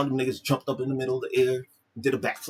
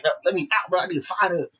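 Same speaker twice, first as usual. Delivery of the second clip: acted urgent demand; 6 semitones higher, 4 dB louder than usual. Voicing Stack demanding to get out.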